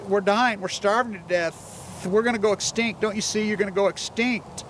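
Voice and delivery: mild imitated crying; retold crying plea. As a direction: plead for them, voice lifted. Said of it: "they're crying and they're like".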